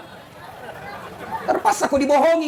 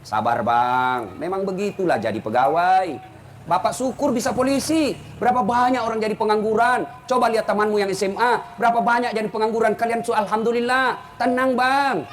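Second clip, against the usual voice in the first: gentle soothing wife. Pretend. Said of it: "kau support dia".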